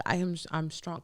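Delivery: soft, low muttered pep talk; hushed self-talk. Retold or imitated. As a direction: say it quietly to yourself to hold on. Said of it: "I'm just like".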